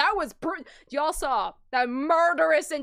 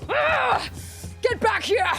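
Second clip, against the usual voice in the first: roaring shouts, much higher and louder; unhinged rage at the traitor; furious villain rage; 10 semitones higher, 5 dB louder, slower than usual. Acted. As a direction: scream it like a cornered killer. Culprit's enraged breakdown.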